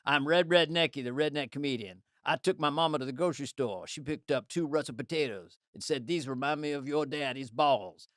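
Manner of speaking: redneck comedian. Acted. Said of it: "Here's Chris's joke".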